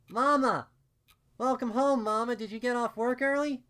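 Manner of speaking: put-on high, loud, excited child's call; overjoyed little filly. A narrator's reading. Little Dinky crying out to her returning mama, high and overjoyed. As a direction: squeal it like a thrilled little kid. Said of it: "Little Dinky cried out, overjoyed".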